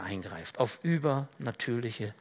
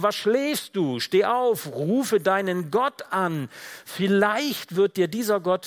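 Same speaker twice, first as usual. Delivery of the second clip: raised, higher voice of an insistent captain; urgent rousing; 4 semitones higher, 4 dB louder, slower than usual. Acted. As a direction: rouse a sleeper, urging slowly at the end. Captain rousing sleeping Jonah. (eindringlich aufrüttelnd, mit erhobener Stimme)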